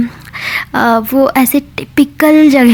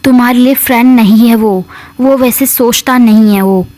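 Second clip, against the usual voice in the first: indignant retort. Retold or imitated. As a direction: snap back that she knows better. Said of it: "ऐसे बोलती है".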